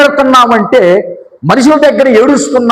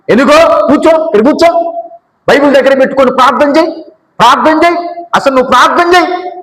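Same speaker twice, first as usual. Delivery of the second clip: higher, brisk scolding to sit and pray; 5 semitones higher than usual. Retold or imitated. Scolding a church member who runs off, telling them to pray.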